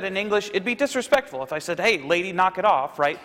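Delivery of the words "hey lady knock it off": lightly voiced curt dismissal; mock rude brush-off. Shown as a demonstration. Preacher showing a rude way to address a woman, lightly curt. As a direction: toss it off a touch rudely. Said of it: "That kinda comes off as disrespectful".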